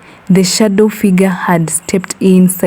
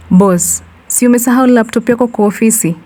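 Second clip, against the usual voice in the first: calling out; 4 semitones higher, faster than usual. Acted. Guard calls Brian back.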